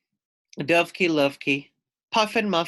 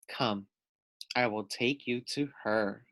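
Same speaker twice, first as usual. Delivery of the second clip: softer, coaxing fox voice; sly soft invitation; 4 semitones lower, 6 dB quieter than usual. Acted. Foxy Loxy luring the birds, soft and sly. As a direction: lure them in quietly. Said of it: "said Foxy Loxy".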